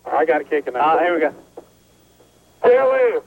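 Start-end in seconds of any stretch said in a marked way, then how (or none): 2.6-3.2 called out through a bullhorn; bullhorn shout. Real, not acted. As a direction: shout the answer across the lot. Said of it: "start shouting George Washington toward the building".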